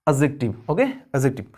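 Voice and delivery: एडजेक्टिव said with the d dropped, like "ejective"; एडजेक्टिव with silent d, as a teacher demos it; silent d in adjective. Shown as a demonstration. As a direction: say एडजेक्टिव without any d sound. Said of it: "इसमें ये जो डी है ना ये silent है".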